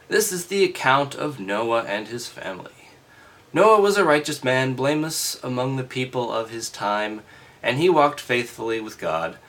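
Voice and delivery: loud, formal reading voice; scripture reading. Acted. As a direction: read it out like a lesson.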